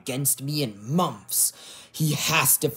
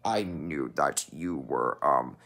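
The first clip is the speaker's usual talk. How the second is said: whispering; 10 semitones lower, 5 dB quieter than usual. Acted. Dark double whispers.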